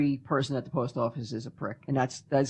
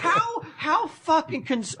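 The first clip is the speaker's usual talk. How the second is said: laughing; 12 semitones higher, slower than usual. Real, not acted. Laughing retelling Ming's worry.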